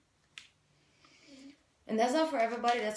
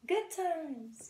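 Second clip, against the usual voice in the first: put-on very high, gleeful child's cheer; happy kid cheering; much slower than usual. The Sun card's little kid cheers, very high and gleeful. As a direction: squeal it like a delighted little kid. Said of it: "He's like".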